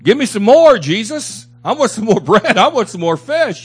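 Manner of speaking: a hint of a greedy, eager follower begging; greedy crowd voice. Preacher voicing the crowd begging Jesus, eager and greedy. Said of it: "people that followed him because".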